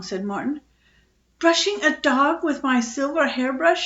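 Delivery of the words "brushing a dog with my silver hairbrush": high, loud, outraged shriek; mother shrieks at her son over the hairbrush. A narrator's reading. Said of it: "shrieked his mother".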